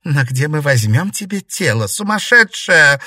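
high, loud shout; outcry. A narrator's reading. Щергина shouts at the ghost in a high loud cry. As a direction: yell it at the madwoman. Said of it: "выкрикнула Щергина".

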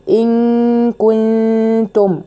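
slow ان كو with a held ghunna; ikhfaa demo. Shown as a demonstration. Teacher shows ikhfaa before the kaf. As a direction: hold the hidden nun before كو. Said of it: "فبقول".

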